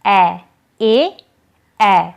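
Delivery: teacher drilling the e vowel. Shown as a demonstration. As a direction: clear repeated ए, spaced apart. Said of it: "उच्चारण होता है ए और बड़े ए में".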